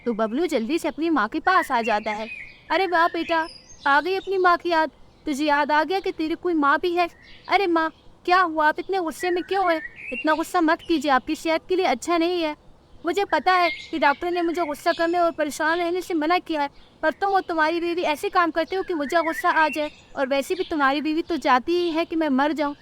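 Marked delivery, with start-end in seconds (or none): 2.7-7.1 higher-pitched reproachful bird mother; sarcastic mother. Acted. Mother reproaches her late-coming son, sarcastic. 7.5-12.5 higher-pitched soothing bird son; calm her in a higher voice; concerned son. Acted. Bablu asks angry mother to calm down, concerned. 13.0-22.8 higher-pitched, mildly cross mother; aggrieved mother. Acted. Mother blames son and his wife, aggrieved.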